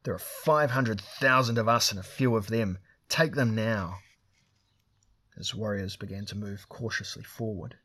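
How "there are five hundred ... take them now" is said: loud, angry order to attack; cursing command. Acted. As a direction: bark it at the warriors. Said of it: "Turan Gashtek cursed them".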